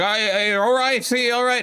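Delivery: high, anxious mother voice; mock panicked mother asking if he's okay; imitating mom. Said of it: "she's like".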